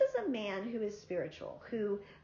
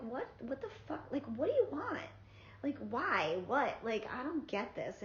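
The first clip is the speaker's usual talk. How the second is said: exasperated retold rant, pitched higher; annoyed; 4 semitones higher than usual. To the guy who sent a random song, annoyed. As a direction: replay the irritation, higher and sharper. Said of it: "like, annoyed".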